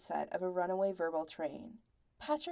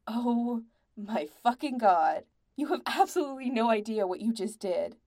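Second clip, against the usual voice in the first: exasperated; 3 semitones higher, 5 dB louder than usual. A narrator's reading. Angry bandmate scolds the others.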